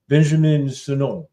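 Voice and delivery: mock French pronunciation; French accent. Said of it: "just start calling him".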